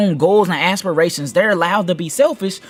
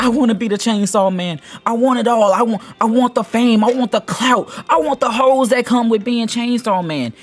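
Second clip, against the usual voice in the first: mock sobbing wish; 6 semitones higher than usual. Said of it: "Denji starts crying and uncontrollably sobbing".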